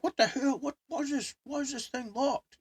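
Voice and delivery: high-pitched retold indignation; mildly hammed-up exasperated question; acted indignant complaint. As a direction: mimic a baffled, annoyed boyfriend. Boyfriend's baffled complaint, acted.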